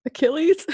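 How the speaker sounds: "Achilles" rising high like a question; questioning intonation. Retold or imitated. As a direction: lift the end of "Achilles" into a question. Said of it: "Saying it like a question".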